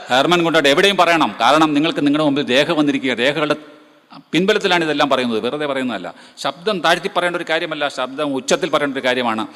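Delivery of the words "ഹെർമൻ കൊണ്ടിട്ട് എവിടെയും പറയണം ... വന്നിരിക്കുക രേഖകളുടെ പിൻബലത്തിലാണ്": higher, louder, with a laugh; loud, bold declaration with a laugh; bold proclamation. Real, not acted. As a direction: proclaim the name proudly to the hall. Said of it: "ഉറക്കെ പറയൂ, ധൈര്യപൂർവ്വം പറയൂ".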